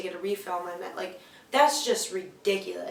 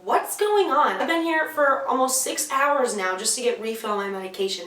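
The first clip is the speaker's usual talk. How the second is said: freaking out; 3 semitones higher than usual. Retold or imitated. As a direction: replay an exasperated demand for answers. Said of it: "I'm freaking the fuck out".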